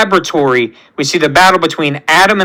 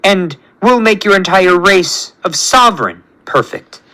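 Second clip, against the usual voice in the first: lightly voiced self-proclaimed god; measured, self-important villain speech; grandiose tyrant creator; 3 semitones higher than usual. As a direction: proclaim each phrase like a demanding ruler.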